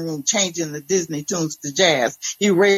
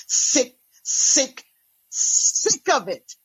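exasperated; 6 semitones higher, much slower than usual. A narrator's reading. Exasperated narrator repeating in dialogue.

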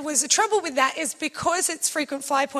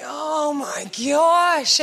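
exasperated groan; much slower than usual. Retold or imitated. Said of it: "Joel and I are like".

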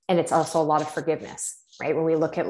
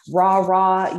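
louder mock rah-rah cheer; 3 semitones higher, 6 dB louder than usual. Mocking the hype of ninety day boot camps, hammed-up cheer. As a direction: cheer it like a hammed-up fitness coach.

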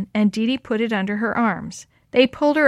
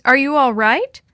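higher, louder worried question; calling out; 4 semitones higher, 6 dB louder than usual. A narrator's reading. Woman calls over high weeds to the lost girl, calling out. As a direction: call the question across the yard. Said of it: "called over the high weeds".

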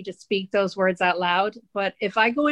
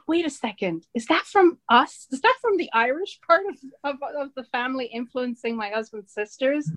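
mock disbelief; 4 semitones higher than usual. Acting out her astonished reaction.

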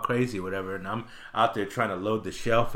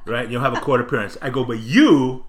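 snapped warning; 2 semitones higher, 6 dB louder than usual. Retold or imitated. Clerk scolding a bratty kid in front of his mother. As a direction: lay down the law with mock menace. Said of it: "something snapped in me".

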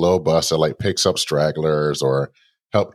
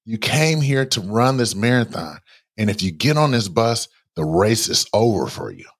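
pleading inner voice; 4 semitones higher than usual. Retold or imitated. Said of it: "my heart is like".

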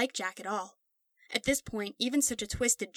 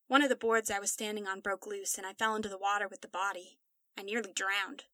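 flat, hopeless voice; 4 dB quieter than usual. Acted. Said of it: "He said this so matter-of-factly".

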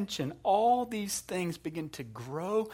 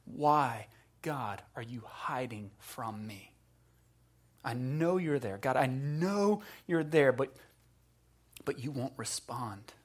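soul's cry; 3 semitones lower, 4 dB quieter than usual. Acted. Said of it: "that cry of our soul that says".

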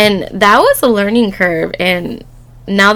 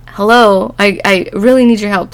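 mock impatient call, slightly raised; insistent calling; 4 dB louder than usual. Ex calling her after five minutes, insistent. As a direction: imitate a mildly exasperated plea for attention. Ex calls again after waiting.

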